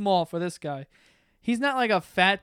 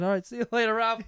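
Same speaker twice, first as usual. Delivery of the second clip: firm brush-off; 6 semitones higher, 8 dB louder than usual. Retold or imitated. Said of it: "And I said".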